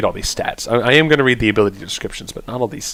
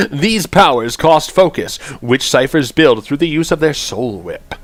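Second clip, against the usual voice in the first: weird announcer voice; 2 semitones higher than usual. Acted. Streamer reads chanter abilities to viewers, weird announcer voice. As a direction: announce each ability in a silly raised voice. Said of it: "read my ability in my weird voice".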